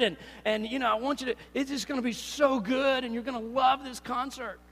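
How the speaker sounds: pumped-up friend pushing concert tickets; hyped invitation. Retold or imitated. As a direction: talk your friend into it, all enthusiasm. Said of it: "This is like if you said".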